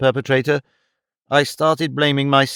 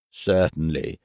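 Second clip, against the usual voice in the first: low, mild and unhurried; mild reply; 7 semitones lower, 4 dB quieter, slower than usual. A narrator's reading. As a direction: concede gently, like a kind priest. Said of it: "the Reverend replied mildly".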